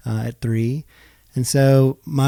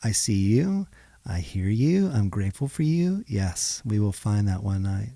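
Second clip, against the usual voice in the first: softer, calming reassurance; soothing husband; 3 semitones lower, 4 dB quieter than usual. Retold or imitated. Husband gently soothing his tired wife. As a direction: settle her down gently.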